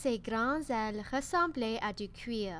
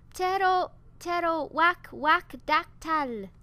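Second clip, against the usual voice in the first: high, loud squawking stumble over the name; cri raté; 5 semitones higher, 7 dB louder than usual. Acted. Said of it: "s'écria". (cri strident et raté du nom)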